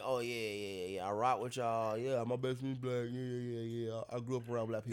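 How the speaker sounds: mock fake ally. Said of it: "be like".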